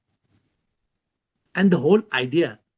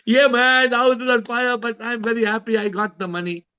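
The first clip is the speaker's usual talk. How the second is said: mock joy; 5 semitones higher than usual. Family rejoices after hearing of sale.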